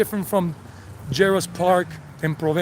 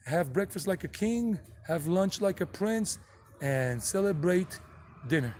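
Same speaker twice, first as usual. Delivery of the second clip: slow translation; 6 dB quieter, slower than usual. Shown as a demonstration. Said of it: "They say".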